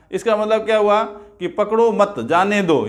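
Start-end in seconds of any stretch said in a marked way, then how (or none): 1.5-2.9 "पकड़ो मत" joined, then जाने दो apart; group मत with पकड़ो, then let जाने दो follow; pause after मत. Shown as a demonstration. Teacher explaining the let-him-go meaning, pause after मत. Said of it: "मत के बाद मैंने थोड़ा ठहराव दिया".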